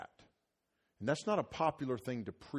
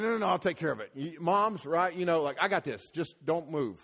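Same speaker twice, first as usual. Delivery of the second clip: wife reassuring; 4 semitones higher, 5 dB louder than usual. Retold or imitated. Wife taking over at night.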